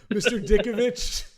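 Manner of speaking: put-on thick Eastern European accent. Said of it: "quoting the landlord scene".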